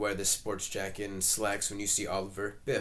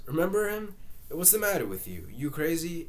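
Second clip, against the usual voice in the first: incredulous; 7 semitones higher than usual. Acted. Willie scoffs at Linda's doubt.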